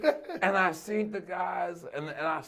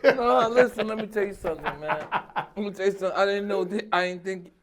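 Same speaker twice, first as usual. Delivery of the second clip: helpless, real laughter breaking up the words; gasping out words while cracking up; laughing to tears. Real, not acted. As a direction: struggle to talk through laughing. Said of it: "I'm crying".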